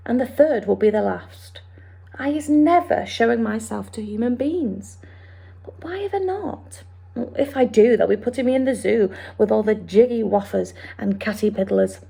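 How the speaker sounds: quick, lightly voiced friendly giant; BFG voice. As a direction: explain it like the big friendly giant. BFG long speech.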